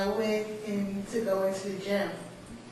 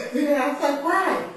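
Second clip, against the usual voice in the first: laughing; 5 semitones higher, 4 dB louder than usual. Real, not acted. Retold reaction while laughing.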